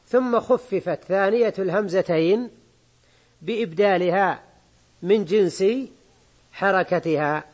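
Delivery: slow, measured reading of the text. Acted. Teacher reading the grammar book aloud to students, slow and measured. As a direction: read the quoted rule out deliberately to the class.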